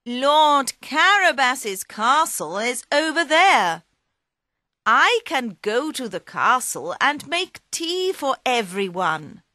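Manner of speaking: lightly voiced magic cat; Puss in Boots.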